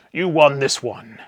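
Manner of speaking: mock stage banter. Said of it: "in the voice of the Swedish Chef".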